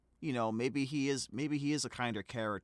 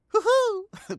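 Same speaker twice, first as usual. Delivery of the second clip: laughing; 13 dB louder than usual. Real, not acted. Laughs at tickle clip.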